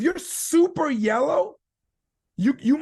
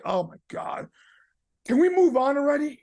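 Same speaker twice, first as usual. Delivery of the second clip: impatient sigh; 3 semitones higher than usual. Retold or imitated. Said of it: "some of the reds in the room are like".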